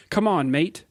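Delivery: half-hearted attempt at an Australian accent; failed Australian accent. Podcast host reading an Australian officer's line, half-hearted Australian accent. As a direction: read it as if bracing for an Australian accent, barely landing it. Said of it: "I don't have an Australian accent, sorry".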